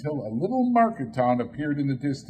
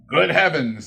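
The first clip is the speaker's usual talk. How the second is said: amazed; 5 semitones higher, 7 dB louder than usual. Acted. Scrooge amazed at his boyhood home.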